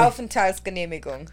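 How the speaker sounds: Aufenthaltsgenehmigung said in fluent native German; German word. Shown as a demonstration. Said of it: "what is it called".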